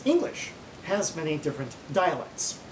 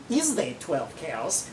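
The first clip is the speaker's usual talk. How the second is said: slow, deliberate gloss; much slower than usual. Shown as a demonstration. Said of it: "if you make that into a question".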